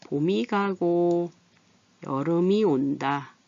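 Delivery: slow "보미 가고 여르미 온다"; very slow demo linking 봄이 and 여름이 into "보미", "여르미"; linked reading. Shown as a demonstration. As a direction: draw out 봄이 and 여름이 as "보-미", "여르-미". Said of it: "이렇게 표시로 약속을 합니다".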